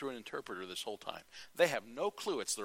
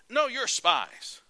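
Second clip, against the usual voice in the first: slow, loud, much higher accusation; slow menacing insistence; 11 semitones higher, 10 dB louder, much slower than usual. Acted. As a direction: drag each word out to crush their denial. Joseph insists, slowly.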